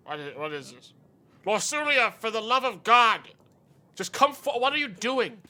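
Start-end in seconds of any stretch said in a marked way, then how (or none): 1.5-5.4 exasperated scolding. Acted. King scolds his daughter.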